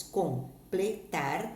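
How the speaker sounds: "Completar" very slowly split into com-ple-tar; "Completar" drawn out with gaps between syllables. Shown as a demonstration. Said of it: "observe a separação de sílabas destas palavras".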